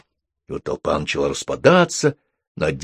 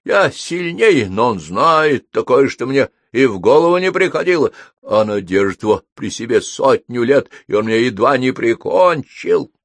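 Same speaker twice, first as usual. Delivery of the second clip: crackling fire demon; 5 semitones higher, 5 dB louder than usual. A narrator's reading. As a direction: complain as a battle-worn little demon. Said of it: "слабо потрещал Кольцефер". (высокий голос огненного демона)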